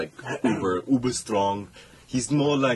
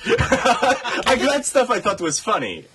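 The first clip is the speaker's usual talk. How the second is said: fake Russian accent; 9 semitones higher, 3 dB louder than usual. Real, not acted. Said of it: "Why am I still in fake Russian accent?".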